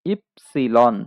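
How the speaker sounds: "ইপসিলন" said ip-si-lon, syllables spaced out; German Y drilled as "ইপসিলন"; German letter Y. Shown as a demonstration. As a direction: model "ইপসিলন" deliberately, part by part. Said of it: "Y এর প্রনাউন্সিয়েশনটা হবে ইপসিলন".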